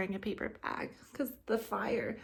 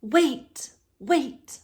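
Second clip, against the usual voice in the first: loud, higher calls of wait; calling out; 7 semitones higher, 7 dB louder than usual. Acted. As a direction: stop the dragon with an urgent call. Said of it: "Elizabeth said".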